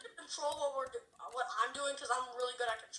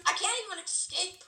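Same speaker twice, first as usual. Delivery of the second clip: mock crying; 4 semitones higher than usual. Trapped, crying out.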